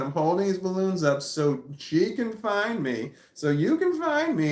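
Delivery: pointedly loud announcement. Retold or imitated. Telling roommate so everybody around hears, pointedly loud. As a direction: declare it so bystanders catch every word. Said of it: "I said this loud enough for everybody around".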